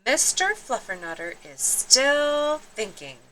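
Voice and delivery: mother's calm firm answer; a hint of a patient mom. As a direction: settle it for the kids. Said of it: "answered Mama Junebug Jones".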